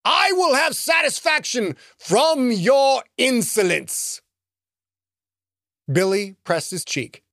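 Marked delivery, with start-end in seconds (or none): 0.0-4.2 higher and slowish, haughty threat; a pompous wizard declaring vengeance; booming villain voice. Acted. Sky wizard vows satisfaction, booming and haughty. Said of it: "the booming voice called".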